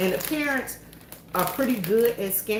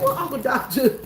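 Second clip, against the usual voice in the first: innocent question; 4 semitones higher, 3 dB louder than usual. Retold or imitated. Asking husband about uncle.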